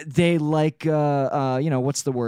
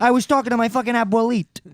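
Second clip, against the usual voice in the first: mock Italian-American; 6 semitones higher than usual. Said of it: "Mexican Tony Soprano".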